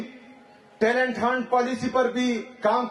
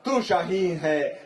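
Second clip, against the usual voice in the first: poem recitation. Acted. Opening a speech to students with verse, declaimed poem. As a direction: recite the couplets in a ringing, sustained oratorical voice.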